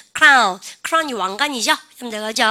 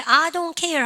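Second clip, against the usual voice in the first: higher-pitched, cocky brush-off; cheeky; 5 semitones higher, much slower than usual. Acted. Teacher voices a woman shrugging off frowners, cheeky. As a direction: say it with brazen indifference. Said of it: "아주 건방지게".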